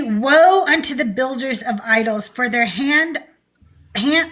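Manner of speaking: solemn, grand scripture reading; mock biblical prophet. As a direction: proclaim it like an old prophet. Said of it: "let me read like a normal human being".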